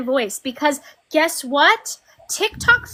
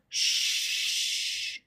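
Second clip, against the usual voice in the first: unvoiced mock hush; whispered shush; 10 dB quieter than usual. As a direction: hush him like a child. Hushing him mockingly.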